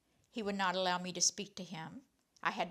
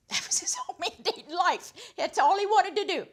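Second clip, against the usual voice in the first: laughing; 11 semitones higher, 11 dB louder than usual. Real, not acted. Laughing while telling of Carl.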